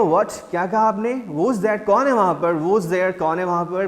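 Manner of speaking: put-on teacher reading the startled boy's lines to the class. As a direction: call out in alarm, who's there. Teacher voices startled Daddy.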